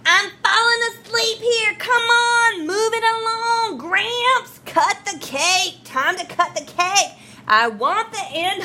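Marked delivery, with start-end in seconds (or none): 0.1-4.6 impatient heckler. Acted. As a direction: hurry the old man up rudely. Tooth heckles at wedding.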